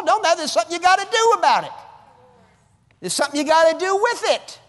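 loud, high preaching as Paul to Timothy; preaching at full force. Acted. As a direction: proclaim it like Paul urging Timothy.

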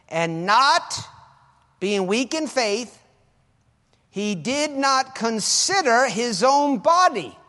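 loud, high, slow reading of scripture; preached scripture. Acted. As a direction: proclaim the verse to the crowd.

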